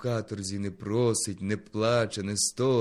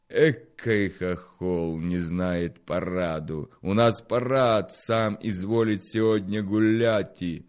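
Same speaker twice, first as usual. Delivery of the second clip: mocking local; 7 dB louder than usual. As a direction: sneer at the ignorant outsider. A local mocks the Ukrainian. (зверхній насмішкуватий голос місцевого)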